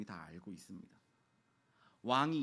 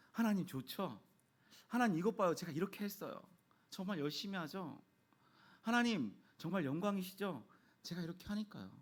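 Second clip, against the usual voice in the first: higher-pitched, lightly acted showing off; eager boasting to God; 5 semitones higher than usual. Self-willed believer showing God their work, eager and higher. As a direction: play someone eagerly seeking approval, pitched up.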